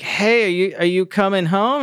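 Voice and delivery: high mock-casual phone voice; shady innocence. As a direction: put on a high, too-casual voice fishing for information. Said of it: "is shady about it".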